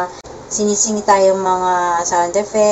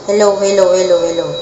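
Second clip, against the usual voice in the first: shockwave echo effect; 4 dB louder, faster than usual. Shown as a demonstration. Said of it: "Then, shockwave".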